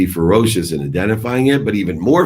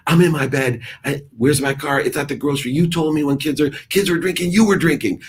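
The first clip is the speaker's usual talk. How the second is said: much higher squeaky mock voice of a defensive teenager; mocking daughter voice; 9 semitones higher than usual. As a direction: ham up the daughter, pitched way up. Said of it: "she would have said".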